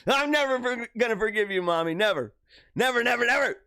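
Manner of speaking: hammed-up childish grudge; mock outrage. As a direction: pitch up for each fresh burst of refusal. Mock accusation addressed to mother.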